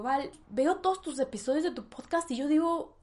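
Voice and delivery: lightly voiced mother asking her daughter; imitating her mom. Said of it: "y me dijo".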